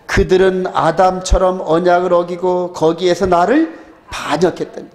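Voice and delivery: even, level-toned recitation of a verse; scripture reading. Acted. Preacher reading Hosea to the congregation, steady scripture recitation. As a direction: read the prophet's words steadily, like liturgy.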